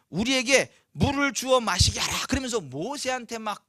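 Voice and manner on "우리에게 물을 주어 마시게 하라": pressing, complaining demand, louder; resentful demand. Acted. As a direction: demand it as an accusation. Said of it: "막 원망하는 투로".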